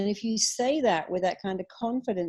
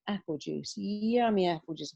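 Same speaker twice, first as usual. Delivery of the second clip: coaxing self-talk; 3 semitones lower, 3 dB quieter than usual. Shown as a demonstration. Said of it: "I go".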